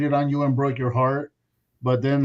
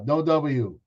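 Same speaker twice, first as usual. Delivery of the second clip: ordinary talk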